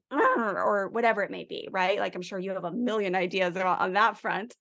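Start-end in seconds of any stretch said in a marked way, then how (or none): 0.1-0.6 mock frustrated growl. Shown as a demonstration. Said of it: "grabbing a stuffy and hugging it and saying".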